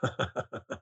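soft, breath-only laugh; quiet chuckle. Real, not acted. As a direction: chuckle under your breath at the rant. Amused by co-host's rant.

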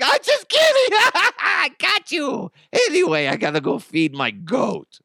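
very high, loud, laughing squeal; hammed-up shrieking prankster; switch to giddy joker. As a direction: crow gleefully, then ease down a little. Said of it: "I would just switch it into".

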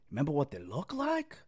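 hammed-up bad Boston accent; quiet fake Boston accent. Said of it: "what a bad Boston accent".

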